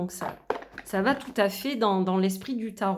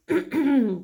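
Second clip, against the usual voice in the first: throat clearing; 3 semitones higher, 5 dB louder than usual. Real, not acted. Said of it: "Pardon, j'en perds ma voix".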